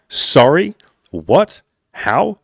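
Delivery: sharp high questions, each one incredulous; mock disbelief. Man reading his girlfriend's shocked text, high disbelief. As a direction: toss out each word like you can't believe it. Reading her surprised message aloud.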